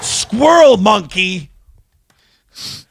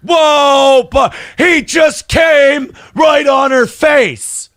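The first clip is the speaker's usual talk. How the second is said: excited shout; 4 semitones higher, slower than usual. Real, not acted. Excited reaction to a clip.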